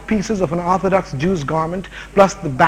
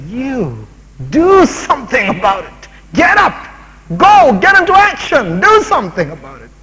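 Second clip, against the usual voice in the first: builds from firm to a full shouted command; 7 semitones higher, 6 dB louder than usual. Acted. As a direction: shout them into action, urgent and loud. Jesus commands, preacher voicing him.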